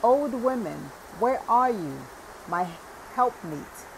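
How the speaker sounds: a loud, high call toward the door; shouting. A narrator's reading. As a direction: call out for his wife in the next room. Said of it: "And he shouted".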